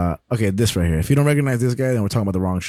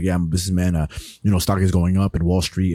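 mock businessman; 4 semitones lower than usual. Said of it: "you could be talking like this".

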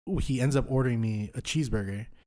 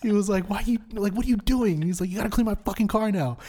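high, laughter-tinged mock outrage; laughing retelling; 11 semitones higher, 4 dB louder than usual. Real, not acted. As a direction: quote the outraged friend while still cracking up. Laughing through friend's outraged reaction.

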